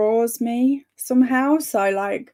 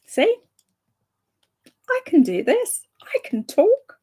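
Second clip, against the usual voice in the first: much higher, louder, triumphant; proud squeal; 11 semitones higher, 4 dB louder than usual. Real, not acted. Streamer proud after finally reading chat names, high squeal. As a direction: crow it like you just won.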